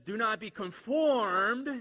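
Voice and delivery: slow, loud, weighty reading of "Do not be conformed"; preacher declaring scripture; emphatic scripture quote. Shown as a demonstration. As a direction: proclaim "Do not be conformed" slowly. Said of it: "And it says".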